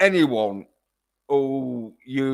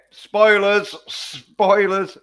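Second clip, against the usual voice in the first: loud, higher, slow warning call; spoiler warning; 8 semitones higher, 5 dB louder, much slower than usual. Real, not acted.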